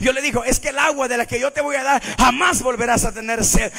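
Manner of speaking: loud, animated sermon storytelling; forceful preaching. Real, not acted. Preacher retelling the well encounter to the congregation, forceful. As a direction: tell the Bible story at preaching volume.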